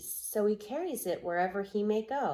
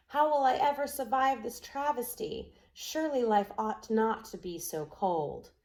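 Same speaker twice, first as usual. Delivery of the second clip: sandpiper's lament; 4 semitones higher than usual. Acted.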